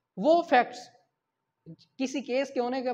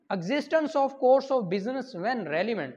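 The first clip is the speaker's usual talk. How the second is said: slow reading; 3 semitones higher, 3 dB louder, much slower than usual. Shown as a demonstration. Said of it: "reading the article title slowly".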